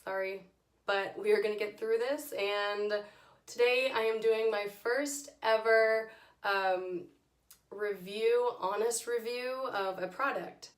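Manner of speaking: hoarse, strained lost voice; raspy whisper. Real, not acted. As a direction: talk through a lost voice. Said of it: "I have no voice".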